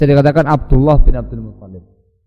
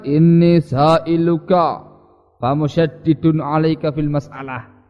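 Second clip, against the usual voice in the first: slow, hard-edged Bedouin demand; mild imitation of a blunt, stiff demand; harsh, stiff questioner; much slower than usual. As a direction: drag it out slowly and bluntly, like a rough desert Arab pressing his question. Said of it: "Keras ini, kaku ucapan dia ini".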